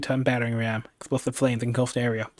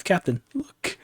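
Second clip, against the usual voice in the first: startled guards shout higher; surprised call; 6 semitones higher, slower than usual. Acted. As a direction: cry out in sudden surprise. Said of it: "call out in surprise".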